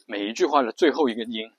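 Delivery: 每一句话的最后一个音 with 音 sinking into a creak; vocal fry on the last syllable. Shown as a demonstration. Teacher shows fry only on the final 音. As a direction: let 音 fall into a creaky rattle. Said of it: "就是这么说".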